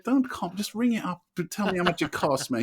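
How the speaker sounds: high, exasperated mock plea; high-pitched exasperation. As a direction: squeak it out, fed up. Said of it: "I'm like".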